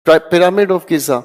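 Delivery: pyramid of Giza said very slowly, each word drawn out; slow and spelled out. Shown as a demonstration. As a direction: lay out pyramid of Giza slowly so students catch it. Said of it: "जी I Z A".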